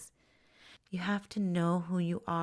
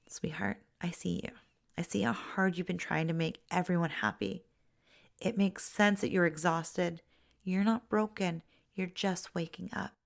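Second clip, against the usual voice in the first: sweet and tender. Shown as a demonstration. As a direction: hush it like soothing a toddler. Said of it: "You say it with such sweetness".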